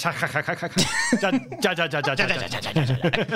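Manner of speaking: spelled-out ja ja ja; mock Spanish laughter; reading laugh in Spanish. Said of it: "laughs in Spanish".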